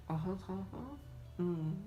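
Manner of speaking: mock a Valley girl's filler noises. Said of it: "sounds like".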